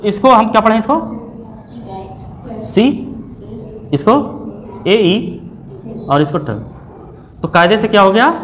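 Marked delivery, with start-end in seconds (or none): 2.6-6.5 letters stretched out very slowly; teacher spelling the word letter by letter. Shown as a demonstration. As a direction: read each letter off the board slowly. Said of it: "क्या लिखा है?".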